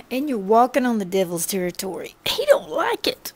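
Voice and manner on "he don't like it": whispered aside. Real, not acted. Aside about the devil.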